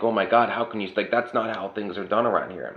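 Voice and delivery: pearl-clutching boomer. Retold or imitated. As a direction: play the shocked relative clutching her pearls. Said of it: "do, like, a pearl clutch".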